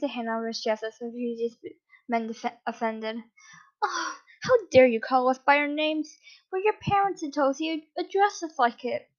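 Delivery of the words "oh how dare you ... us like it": higher, mock-indignant scolding; playfully huffy, like a pouting parent; childish warning. Mother teasing her grown son, childish warning. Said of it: "his mother's childish warning".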